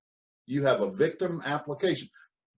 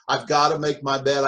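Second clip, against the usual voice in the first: grudging gotta; 5 dB louder than usual. Shown as a demonstration. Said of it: "difference between those two thought processes".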